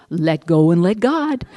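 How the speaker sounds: slow, sarcastic recital of the slogan; mocking slogan. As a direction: say it like a tired cliché you despise. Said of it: "And this is what I get".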